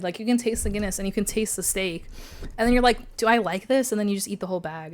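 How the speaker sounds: talking through crunchy chips; words around a mouthful of chips; chewing while talking. Real, not acted. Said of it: "Sorry for the munching A S M R".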